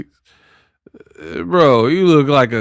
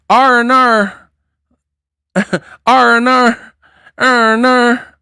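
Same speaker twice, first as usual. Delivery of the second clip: higher, mocking Australian R and R; mock Aussie accent; 8 semitones higher than usual. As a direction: lach en doe een overdreven Aussie na. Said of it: "they be putting R's on the words".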